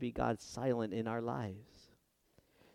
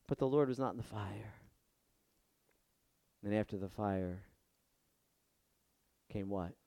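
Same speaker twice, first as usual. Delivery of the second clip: hushed; 6 semitones lower, 6 dB quieter than usual. Shown as a demonstration. Builds to the still voice.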